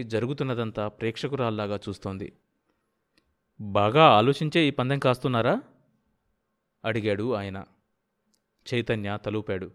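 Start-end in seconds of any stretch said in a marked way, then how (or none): 3.6-5.6 challenging. Acted. Host challenges the bettor.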